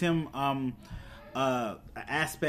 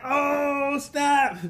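high, drawn-out thrilled reaction; stretched-out, high-pitched fan excitement; excited; 12 semitones higher, 4 dB louder than usual. Retold or imitated. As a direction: relive a hyped "oh snap", pitched way up. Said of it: "I got so excited".

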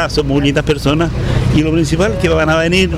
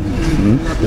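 ordinary delivery

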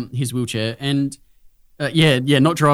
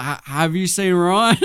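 put-on drunk friend voice; 4 semitones higher than usual. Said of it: "He's like".

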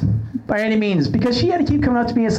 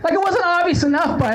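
laughing through the words; 12 semitones higher than usual. Real, not acted. Host laughing at his own outfit story. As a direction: chuckle while telling it.

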